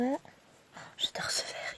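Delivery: hushed whisper of admiration; whispered, fond gasp over a green thread; whispered delight. Real, not acted. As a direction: breathe it out like a secret crush on the colour.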